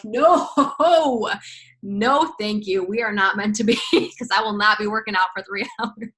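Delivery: amused no-thank-you with chuckles; laughing refusal. Retold or imitated. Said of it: "and I'm like".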